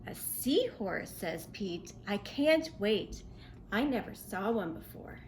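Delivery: put-on lively storybook read-aloud for kids; reading to children. A narrator's reading. Teacher reads a seahorse story to children, bright and lively. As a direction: read it like story time for little ones.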